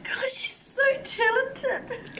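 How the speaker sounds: tearful, voice breaking; crying. Real, not acted. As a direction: say it through tears. First reaction, crying.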